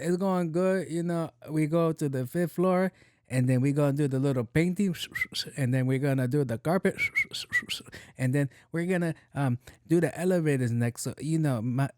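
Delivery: hammed-up Latino crew member voice; put-on Latino accent. Joking reply to lady asking about construction, put-on Latino accent. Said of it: "Why are you speaking like that?".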